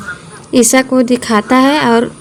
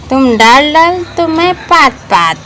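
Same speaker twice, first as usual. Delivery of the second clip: a touch of a smug villain, slightly higher; lightly voiced gloating villain line; villain's taunt; 3 semitones higher than usual. Akash taunting Suraj, mild hammed-up villain taunt. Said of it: "ये वाला dialogue मेरा है".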